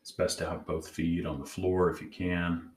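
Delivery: calm, measured meditation guide; guided meditation. Acted. Host leading listeners to check in with their inner parts, guided meditation. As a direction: gently guide them inward, leaving long pauses.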